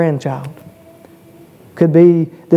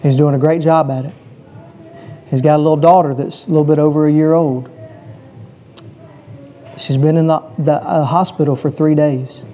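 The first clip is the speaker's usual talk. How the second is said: subdued, slightly lowered voice with long pauses; somber account. Real, not acted. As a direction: tell it gravely, leaving space between phrases. Preacher tells of friend's sick child.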